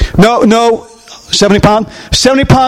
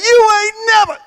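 taunting giant; 10 semitones higher than usual. Acted. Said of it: "rolls back his head and says".

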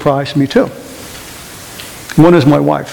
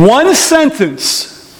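very slow, high stress on "One sentence"; drawn out emphasis; 10 semitones higher, much slower than usual. Real, not acted. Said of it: "emphatic slow phrase".

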